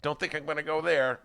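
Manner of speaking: mock hemming and hawing; imitating evasive reluctance; reluctant refusal. Voices reluctant Republicans refusing.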